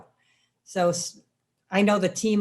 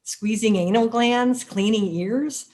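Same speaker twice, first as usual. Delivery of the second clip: mock disbelief; 3 semitones higher, 3 dB louder, slower than usual. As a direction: scoff like coworkers hearing a crazy plan. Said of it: "they're like".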